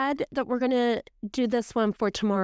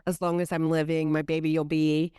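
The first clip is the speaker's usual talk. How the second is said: tender recital; 5 semitones lower than usual. Retold or imitated. Reciting lullaby from book.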